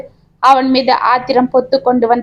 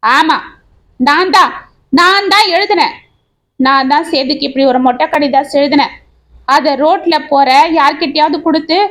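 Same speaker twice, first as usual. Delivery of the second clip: mild mock shout of confession; defiant admission, understated; 3 semitones higher than usual. Wife confessing to writing the letters, mild mock shout. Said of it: "என்று கத்தினாள் லீலா".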